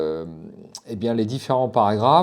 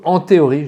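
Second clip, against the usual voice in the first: "en théorie" louder and higher; stress on THÉORIE; 5 semitones higher, 6 dB louder than usual. Real, not acted. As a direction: lean hard on "en théorie". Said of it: "je dis bien en théorie". (« en théorie » bien appuyé)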